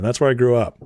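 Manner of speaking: normal talking voice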